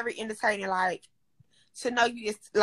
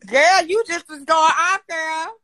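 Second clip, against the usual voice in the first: laughing; 8 semitones higher, 5 dB louder, slower than usual. Real, not acted. Teasing friend through laughter.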